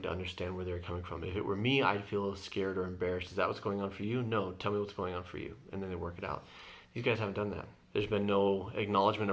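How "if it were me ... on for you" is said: gentle bridging words. Shown as a demonstration. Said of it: "expressing your vulnerable emotion".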